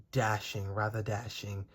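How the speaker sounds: lightly put-on British accent; a touch of playful mock British. Vlogger admiring a model aircraft, mild British accent. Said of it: "I'm doing a British accent".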